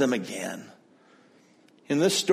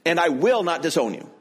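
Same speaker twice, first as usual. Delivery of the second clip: higher, pleading vow of loyalty; impulsive Peter; 4 semitones higher than usual. Retold or imitated. Peter vowing to Jesus he will die with him, fervent. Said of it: "What's he saying?".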